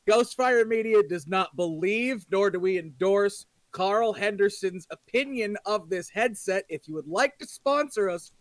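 measured, tongue-in-cheek official statement; mock corporate disclaimer. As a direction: deliver it like a sponsor-safe legal notice. Reads a mock sponsor disclaimer.

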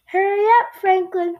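high, loud call to hurry; mother hurrying child. A narrator's reading. Mother rushing Franklin to the school bus, urgent call. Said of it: "said his mother".

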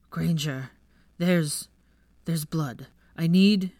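urgent halting call, rising loud on the last words; a wounded boy calling out, stumbling over his words; calling her name. Acted. Draco calling out to Granger about the blood, urgent and halting. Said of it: "Draco was calling her name".

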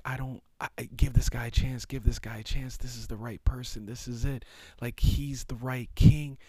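high, pressing plea to give this guy a chance; upset pleading. Retold or imitated. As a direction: push the plea up high like you're desperate. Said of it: "he's really upset 'cause he's like".

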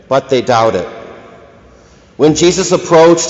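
solemn measured scripture reading; Gospel reading. Acted. Reads the Gospel aloud.

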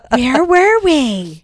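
squeaky voice. Real, not acted. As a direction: squeak the question out. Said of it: "Why are you squeaking?".

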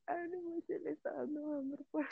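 amused, high mocking quote; mock teasing cousins. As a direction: imitate cousins laughing at you. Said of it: "mis primos estaban riendo de mí".

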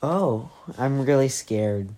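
slow dry sarcasm; sarcastic. Shown as a demonstration. Dex answers Stina's threat with slow dry sarcasm. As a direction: drawl it, unimpressed. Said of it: "that's not how you s-, what it sounded".

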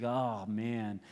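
half-hearted, low-pitched sigh of reluctance; lackadaisical. Retold or imitated. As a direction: play it mock weary and unbothered. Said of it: "is not doing so lackadaisically".

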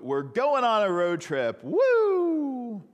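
high, loud thrilled announcement; squealing excitement; excited dog owner. Retold or imitated. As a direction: replay the giddy road-trip cheer. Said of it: "the first one of what".

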